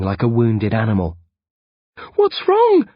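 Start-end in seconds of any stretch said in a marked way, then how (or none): 2.1-2.9 loud, higher panicked cry; alarmed cry. Acted. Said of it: "I cry".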